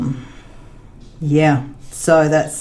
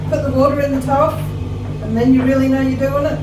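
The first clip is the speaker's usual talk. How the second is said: pet talk; 8 semitones higher, faster than usual. Real, not acted. Teasing her dog about his bath, high pet talk.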